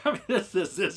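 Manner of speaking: giddy real laughter through the words; excited laugh. Real, not acted. Streamer thrilled by his own discovery, laughing. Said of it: "I'm a little excited here".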